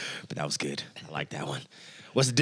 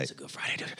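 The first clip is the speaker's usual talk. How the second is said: whispered; 11 dB quieter, faster than usual. Acted. Repeats phrase whispered.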